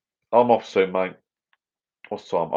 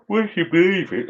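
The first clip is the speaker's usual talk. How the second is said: much higher, squeaky "would you believe it?"; amazed disbelief; 12 semitones higher than usual. Real, not acted. To the viewers, a high squeaky cry of disbelief. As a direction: pitch it way up like you can't believe it.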